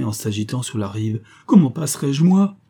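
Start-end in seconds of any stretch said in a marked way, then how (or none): 1.5-2.6 loud question climbing high; desperate cry. A narrator's reading. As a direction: shout it helplessly from the bank. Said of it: "s'écriait Olivain, pâle et désespéré".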